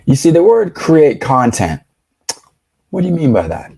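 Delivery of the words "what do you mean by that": high, loud, mocking disbelief; loud incredulous reaction. Real, not acted. Streamer loudly mocks the content creator answer, high incredulous. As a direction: crank it up in mock outrage.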